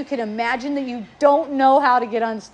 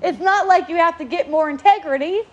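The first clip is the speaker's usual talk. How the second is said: louder and higher, building on each working; insistent advice; 7 semitones higher, 4 dB louder than usual. Retold or imitated. Telling a student to stop chasing integrity, rising insistently. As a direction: push them harder with every working. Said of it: "And I go".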